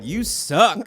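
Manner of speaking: put-on high teasing baby voice, laughing; baby talk. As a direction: coo it with a laugh.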